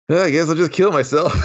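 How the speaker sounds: laughing through a dark joke. Real, not acted. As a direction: crack up mid-line. Line breaks into laughter.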